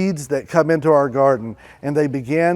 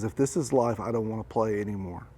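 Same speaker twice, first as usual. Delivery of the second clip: softer, fading resignation; shut down; 4 semitones lower, 9 dB quieter, faster than usual. Acted. Moses giving up on life, softly and fading. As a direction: let it drain out of you.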